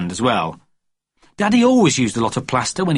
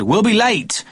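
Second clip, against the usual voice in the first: higher, a touch of nagging; impatient Daddy; 9 semitones higher, slower than usual. A narrator's reading. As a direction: fret about the time.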